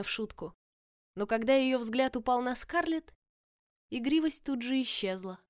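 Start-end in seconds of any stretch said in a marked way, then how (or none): none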